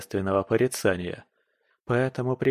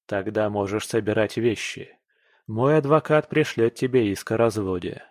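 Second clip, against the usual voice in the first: calm reply. Acted. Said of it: "Спокойно отвечаю я".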